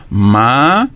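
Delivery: MA alone, drawn out and rising; separated syllable. Shown as a demonstration. Teacher splitting madame for pupils, syllable by syllable. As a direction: hold "ma" as one long syllable. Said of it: "Pour séparer, il faut".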